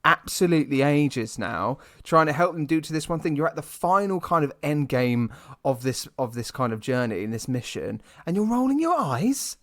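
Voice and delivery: high, loud ranting at the screen, rising as it goes; exasperated rant. Retold or imitated. Ranting at Gamora for rolling her eyes, exasperated. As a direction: scold her like an annoyed fan. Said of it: "I'm like".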